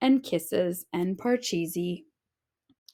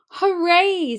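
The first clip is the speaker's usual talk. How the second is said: bright high cheer, louder; happy cheer; 8 semitones higher, 5 dB louder than usual. A narrator's reading. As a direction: cheer with pure joy. Child cheering off to school.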